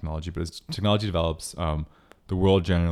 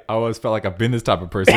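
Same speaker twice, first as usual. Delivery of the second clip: laughing; 3 semitones higher, 5 dB louder, faster than usual. Retold or imitated. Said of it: "I thought you were gonna say".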